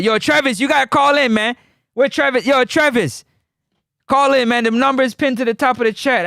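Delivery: calling out to a friend. Real, not acted. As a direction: summon him onto the line. Calling a caller in.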